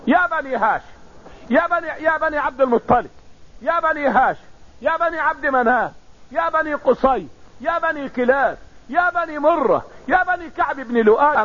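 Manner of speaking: retold public call to the clans. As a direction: call each clan in turn, falling at each name's end. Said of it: "ونادى بأعلى صوت". (نداء محكي على القبائل)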